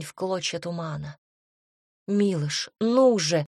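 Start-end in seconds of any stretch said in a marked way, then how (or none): 2.1-3.5 urgent loud call. Acted. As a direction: shout his name urgently. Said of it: "позвала я".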